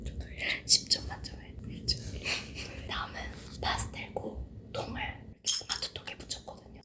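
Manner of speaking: soft unvoiced ASMR whisper. Real, not acted. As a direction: whisper close to the mic. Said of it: "에이에스엠알로 하나하나 소리랑 자막으로만".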